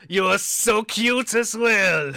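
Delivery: high, slow, loud coo; cooing baker. Acted. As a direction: melt over how cute he is.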